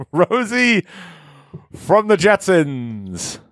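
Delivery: slow stretched winner reveal; drawn-out announcement. Acted. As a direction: drag the name out, slowly.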